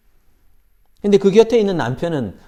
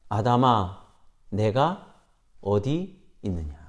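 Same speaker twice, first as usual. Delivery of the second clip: softer, lower, tender calling to Adam; gentle voice of God; 5 semitones lower, 4 dB quieter, slower than usual. Acted. God gently asks hiding Adam where he is, tender and low. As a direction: call him softly, knowing where he is.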